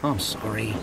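understated, hurried sorry; quick apology. Acted. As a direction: brush it off with a small apology. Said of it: "he replied quickly".

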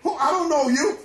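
Jesus turning away a stranger, amused and dismissive; Jesus rejecting, laughing. Acted. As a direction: brush them off with a half-laugh.

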